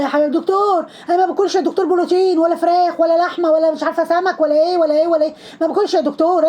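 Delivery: high, whiny mock of the mother pleading with the doctor. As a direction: nag the doctor in a mocking high voice. Mocking the mother talking to doctor.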